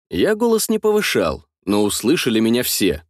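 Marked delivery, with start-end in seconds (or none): none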